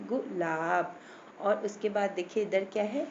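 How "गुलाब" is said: गुलाब with a quick "gu", then a long "laab"; quick short vowel. Shown as a demonstration. Teacher showing the short u matra, quick first syllable. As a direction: clip the gu of गुलाब, hold the laab. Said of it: "बोला ना हमने".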